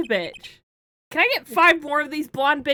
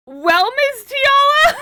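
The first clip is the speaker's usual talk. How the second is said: character voice; 7 semitones higher than usual. Acted. GM voices a character addressing Tiala.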